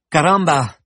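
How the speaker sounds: put-on hammy Spanish accent exclamation; overdone foreign pronunciation. A narrator's reading. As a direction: belt it with a fake Spanish accent. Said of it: "avec un accent espagnol exagéré".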